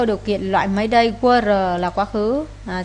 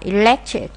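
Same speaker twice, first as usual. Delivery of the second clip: "electric" stressed on LEC; second-syllable stress; slower than usual. Shown as a demonstration. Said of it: "nhấn âm hai".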